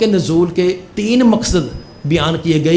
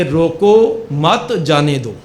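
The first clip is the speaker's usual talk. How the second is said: slow, measured reading of "روکو مت جانے دو"; slow deliberate reading; much slower than usual. Shown as a demonstration. Storyteller reads the officer's ambiguous note, slow and measured. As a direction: read "روکو مت جانے دو" out slowly, word by word. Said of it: "جملہ تو وہی ہے، لیکن وقف کرنے اور نہ کرنے".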